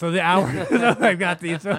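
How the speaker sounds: loud, laughing while talking.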